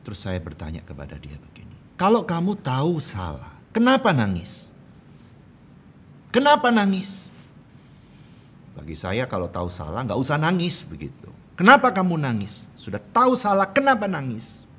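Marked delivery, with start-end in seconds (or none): 1.9-7.3 put-on loud, high-pitched scolding of a child; bentakan ayah. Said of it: "suaranya Daddy yang keras". 11.5-14.7 put-on loud, high-pitched scolding of a child; bentakan ayah. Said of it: "suaranya Daddy yang keras".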